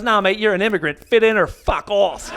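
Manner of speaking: lightly imitated Aussie local; mock Aussie bloke laying down the law; put-on Australian accent. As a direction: brush them off in an Australian accent. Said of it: "Here's my accent".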